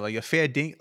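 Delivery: a try at Australian accent; badly faked Australian accent; attempted Australian accent. Shown as a demonstration. Friend trying an accent, Australian accent. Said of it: "I do try hard to do it in Australian".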